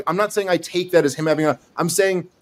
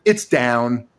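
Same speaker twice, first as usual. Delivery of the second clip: curt reply; 5 semitones lower than usual. Shown as a demonstration. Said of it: "you just assigned tone".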